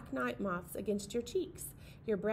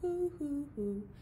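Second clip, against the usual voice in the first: owl hoots; 8 semitones higher, slower than usual. Pretend. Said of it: "The owl in the tree says".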